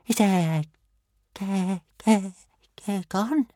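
small stunned dragon voice, up high; amazed whisper. A narrator's reading. Toothless asks Hiccup if the Doomfang is gone, amazed. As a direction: Toothless gasping in disbelief. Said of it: "whispered Toothless in amazement".

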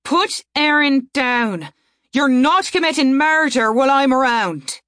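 angry command. Acted. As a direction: order him angrily. Saria commanding.

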